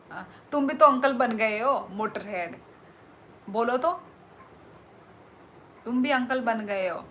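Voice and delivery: loud, gleeful taunt; calling a viewer an uncle, loudly teasing. Real, not acted. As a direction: rub it in, loudly. Teasing viewer about being uncle.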